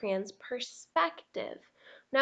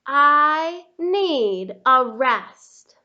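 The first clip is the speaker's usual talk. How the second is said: slow, louder weary plea for rest; exhausted plea; 10 dB louder, much slower than usual. Acted. Red Crayon begging Duncan for rest, slow weary plea. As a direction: beg for a break, drawn out. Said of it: "Your overworked friend".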